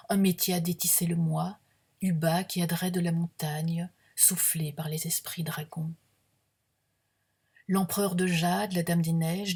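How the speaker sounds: measured, projected poetry reading; deliberate literary recital with pauses between images; poem recitation. Acted. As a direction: read it as solemn verse, phrase by phrase. Reads own poem aloud.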